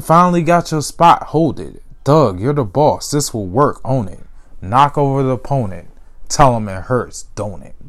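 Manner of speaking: rhythmic poem recital with a mocking refrain; recited sports poem. Shown as a demonstration. Podcaster reciting his sports poem to listeners, taunting rhythm. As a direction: chant it like a taunting verse. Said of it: "recite this poem".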